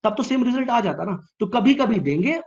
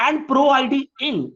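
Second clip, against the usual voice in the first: slow dictation; 6 semitones higher, much slower than usual. Shown as a demonstration. Teacher dictates the SQL query.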